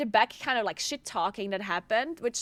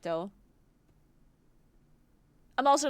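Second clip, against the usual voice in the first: ordinary delivery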